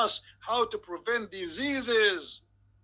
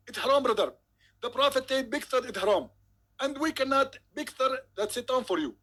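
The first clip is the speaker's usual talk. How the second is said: Zakir Naik impression; 5 semitones higher than usual. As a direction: preach it with gleeful conviction. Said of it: "Doctor Zakir Naik".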